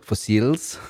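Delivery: The band name as foss-EELS; pronouncing the I. Shown as a demonstration. Co-host echoing the odd band name, pronouncing the I as ee. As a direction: say the band name with a long, stressed ee at the end. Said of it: "You pronounce the I".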